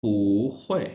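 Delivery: पू हुए said as a model for repeating; model pronunciation. Shown as a demonstration. Teacher to students, modelling पू हुए to repeat after her. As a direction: give पू हुए for them to copy. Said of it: "repeat after me".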